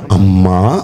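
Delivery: loving address to Mary; tender call. Acted. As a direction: call her gently by a loving name. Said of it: "ఆ మాట కూడా ఏంటో చెప్పనా".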